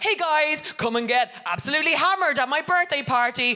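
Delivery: mock-flirty party invite, pitched high; hammed-up sexy birthday invite, voice up high; sing-song invite voice. To her WhatsApp group, a hammed-up flirty high invite. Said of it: "and I'm ever like".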